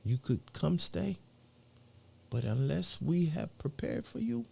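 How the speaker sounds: put-on a light African accent, softly spoken; a hint of an African accent. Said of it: "he said it in his African voice".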